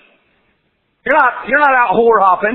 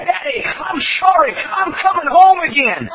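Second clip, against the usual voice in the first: crying out to father; 9 semitones higher than usual. Acted. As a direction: shout it through a sob. Prodigal returns to father.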